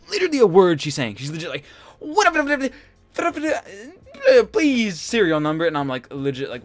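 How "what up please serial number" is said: high, garbled imitation of an Arab accent; mock Arabic-accented gibberish. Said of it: "I cannot understand a fucking word".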